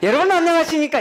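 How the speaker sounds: bright, high news anchor voice. Showing the tone news anchors use for a greeting: news anchor's 'mi' tone. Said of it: "이게 미톤이에요".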